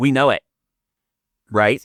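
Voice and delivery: angry, very loud, insistent tone. Imitating a yoga teacher listing the seven houses: imitating someone speaking angrily. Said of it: "Anger in her eyes".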